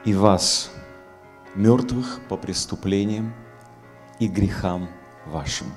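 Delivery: echoing, boomy reverb; inside a barrel. Real, not acted. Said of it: "Звук немножко как в бочке".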